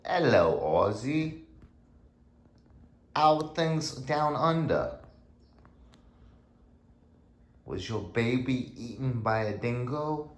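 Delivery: high, drawn-out mock Australian; butchered Australian accent. Dog owner greets YouTubers and Aussie, butchered Australian accent. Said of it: "represent an Australian accent. I know I'm probably butchering it".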